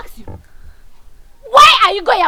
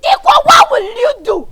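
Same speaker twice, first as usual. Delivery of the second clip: shouted challenge back; angry retort; 3 semitones higher, 5 dB louder than usual. Acted. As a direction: throw the threat back at her, loud.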